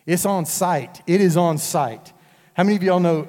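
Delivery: "It's on site" punched loud on "on"; loud call-out. Acted. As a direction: call it out to the room, loud and emphatic. Preacher calls out slang.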